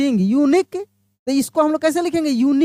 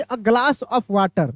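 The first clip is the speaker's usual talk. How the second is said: slow model phrase; 2 semitones lower, much slower than usual. Shown as a demonstration. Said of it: "जब उससे एक का बोध हो".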